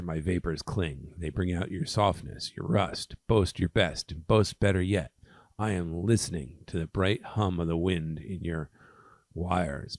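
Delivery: measured, lightly dramatic poem recital; poem reading. Acted. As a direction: read verse aloud with emphasis. Reads a poem aloud.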